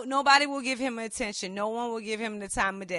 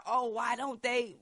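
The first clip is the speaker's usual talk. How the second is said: usual speaking voice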